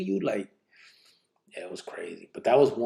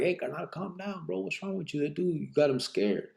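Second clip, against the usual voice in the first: retold plea; 6 semitones higher than usual. Telling Sinner to calm down, retold high-pitched plea. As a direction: retell it high, keeping the volume down. Retelling calming an armed friend.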